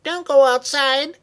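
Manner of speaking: high-pitched, loud cry of warning; urgent warning shout. Acted. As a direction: shout to stop someone going out. Sister shouts warning in storm.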